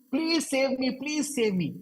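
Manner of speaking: high, loud pleading cry of please save me; mock ghostly plea. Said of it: "she's shouting".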